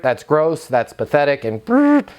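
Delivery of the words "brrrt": a quick high brrrt like something crashing; falling brrrt noise. Shown as a demonstration. Coach mimics credibility dropping, a high brrrt. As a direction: buzz it down fast. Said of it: "it takes our credibility right down".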